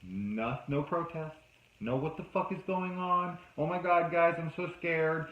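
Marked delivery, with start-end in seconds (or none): 2.0-5.3 mock terror; mock scared girl. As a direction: play the panicked friend she should have been. Voicing the scared girl she expected.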